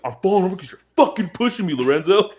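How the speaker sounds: put-on drunk friend protesting. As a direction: whine it like a drunk buddy.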